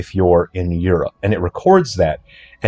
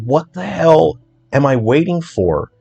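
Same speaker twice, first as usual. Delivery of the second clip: higher-pitched mock exasperation; acted exasperation; 6 semitones higher than usual. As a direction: grumble in a raised pitch at the endless wait. Exasperated waiting on lag, acted.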